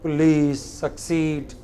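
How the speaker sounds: Police and succeed stressed on -lice and -ceed; stress on final syllable. Shown as a demonstration. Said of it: "where stress is on the final syllable".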